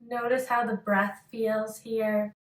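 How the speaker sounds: unhurried meditation guidance with long pauses; calm yoga-teacher meditation voice; guided meditation. Acted. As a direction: lead a listener gently into focus, pausing between phrases.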